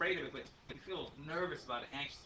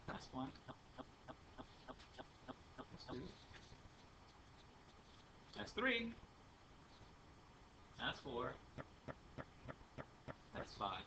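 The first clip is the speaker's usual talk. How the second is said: slow count with long breaths between; 3 semitones lower, 13 dB quieter, slower than usual. Shown as a demonstration. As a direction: count each breath out, unhurried. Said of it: "You take five breaths".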